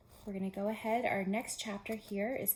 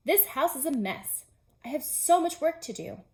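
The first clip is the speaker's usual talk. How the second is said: Toad grumbling; 6 semitones higher, 5 dB louder than usual. Acted. Toad's voice in story.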